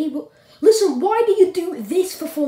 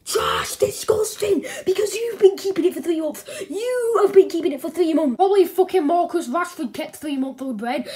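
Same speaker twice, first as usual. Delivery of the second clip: acted indignant rant; mad. Husband berates wife over stale bread, mad. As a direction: scold with heavy emphasis, at no great volume. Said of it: "Don't act so mad".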